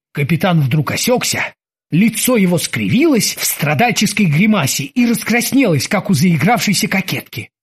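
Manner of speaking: plain reading voice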